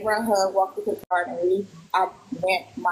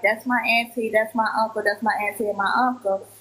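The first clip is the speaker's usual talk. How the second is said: retold excitement; 3 semitones higher than usual. Girl pointing out her auntie and uncle, mildly excited. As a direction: lightly imitate an excited child. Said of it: "she got real excited".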